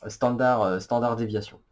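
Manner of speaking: English term in a French accent. Real, not acted. Vlogger giving the English name for écart type, French accent. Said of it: "avec mon magnifique accent".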